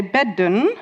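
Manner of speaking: "bedden" with a clearly voiced middle D. Shown as a demonstration. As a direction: keep the D voiced in Dutch "bedden". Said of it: "it's still voiced".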